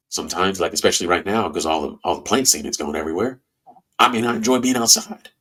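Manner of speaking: talking through a blocked nose; congested, stuffed-up voice; stuffy nose. Real, not acted. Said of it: "which is why I'm sounding all stuffy".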